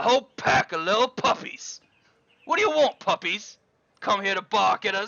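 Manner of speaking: very loud, high, snarling street-thug voice. Narrator voices a cloaked thug confronting the players, snarling thug. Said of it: "he snarls".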